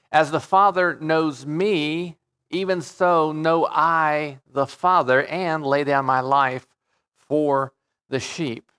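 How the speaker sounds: slow, deliberate verse reading; scripture reading. Acted. Preacher reading Jesus's words to the congregation, slow scripture reading. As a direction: read the verse out slowly, phrase by phrase.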